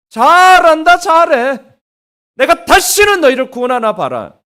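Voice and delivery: God's biting sarcastic reproach; sarcastic rebuke. Acted. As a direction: scold like a furious parent. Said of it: "너무나 매서운 책망".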